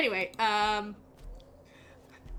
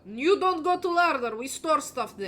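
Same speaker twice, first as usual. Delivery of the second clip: brusque chef; 5 semitones higher than usual. Acted. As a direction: shoo them away from the larder. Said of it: "he goes like".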